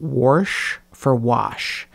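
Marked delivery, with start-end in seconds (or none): 0.0-0.8 "warsh" said with an r slipped in before the sh; Alabama warsh. Shown as a demonstration. Showing an Alabama accent word, "warsh" with an r. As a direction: say "warsh" for wash, with an r sound. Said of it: "an example for an Alabama accent is the word".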